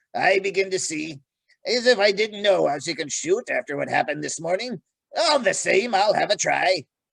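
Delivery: gruff dwarf character voice. Narrator reads the dwarf answering a challenge to an archery match, gruff Trumpkin voice. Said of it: "He spoke gruffly".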